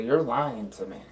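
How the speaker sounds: "lying to me" falling, with no question in it; said as a statement. Acted. Player accusing the character after his denial, falling statement. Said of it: "I'm gonna say it like a statement".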